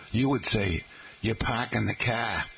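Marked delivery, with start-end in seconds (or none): 1.2-2.4 parking the car with no R's; Boston accent. Retold or imitated. Professors quoting a student's speech, Boston accent. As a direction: drop the G and R's, Boston-style. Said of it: "that Boston accent".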